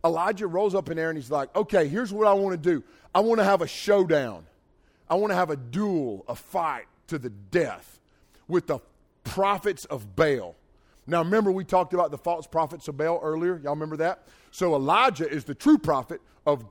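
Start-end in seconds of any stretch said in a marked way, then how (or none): 1.6-10.6 loud, bold preacher's challenge, slowing at the end. Retold or imitated. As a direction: throw down the duel like a bold prophet. Elijah proposes the showdown.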